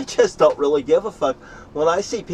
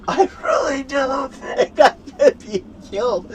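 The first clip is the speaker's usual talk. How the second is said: high-pitched, strained defiant outburst; defiant boast; 10 semitones higher than usual. Real, not acted. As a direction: push it way up high in real defiance. Defiant boast about being unkillable.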